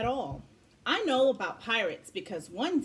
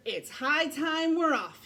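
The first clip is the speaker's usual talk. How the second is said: pirate announcement; 6 semitones higher than usual. Acted. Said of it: "he announced".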